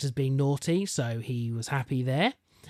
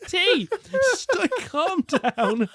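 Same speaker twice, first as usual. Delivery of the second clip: put-on calming the child; 14 semitones higher, 3 dB louder, much slower than usual. Mother calming excited child.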